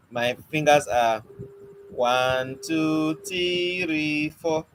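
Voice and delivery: slow trick count with "three" held; counting trick demo. Shown as a demonstration. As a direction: drag out "three" as if it were two counts. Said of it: "You see what I just did?".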